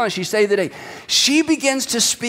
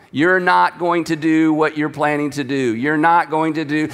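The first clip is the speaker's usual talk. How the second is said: lightly voiced mind-trick suggestion, lower and level; a hint of hypnotic persuasion, pitched down; Jedi mind trick; 4 semitones lower than usual. Abigail talking David out of slaughter, lightly voiced Jedi mind trick. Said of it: "this is like a Jedi mind trick".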